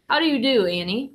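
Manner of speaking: put-on boy putting on his most charming manners. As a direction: lay on the charm to win her over. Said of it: "in my most charming voice".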